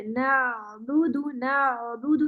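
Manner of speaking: نعبد with the ع flowing in one direction, slow; smooth ain. Shown as a demonstration. Teacher corrects student's ain, slow and smooth. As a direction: let نعبد glide without a separate aa. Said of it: "ایک ہی سمت میں آواز جائے گی".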